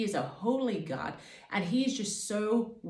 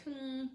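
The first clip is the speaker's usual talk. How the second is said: soft, higher hum and airy puff; casual inconspicuous hum; 5 semitones higher, 12 dB quieter than usual. Retold or imitated. Woman loitering in a store, trying to look inconspicuous, soft hum. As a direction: hum quietly as if just browsing. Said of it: "like, trying to look in-, inconspicuous".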